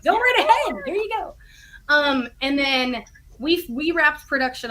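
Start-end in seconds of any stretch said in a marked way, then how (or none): 0.0-1.3 mild retold approval. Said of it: "she was like".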